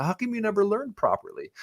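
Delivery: high-pitched mock indignation; retold comeback. Turns driver's criticism back on him.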